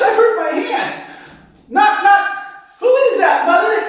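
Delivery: put-on whimpering high childish voice; high whiny voice. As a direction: whine like a hurt boy. Sewing man injured.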